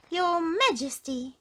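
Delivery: high, slow, loud goblin address; announcing goblin. A narrator's reading. Goblin announcing to the king, high and slow. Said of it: "announced the goblin".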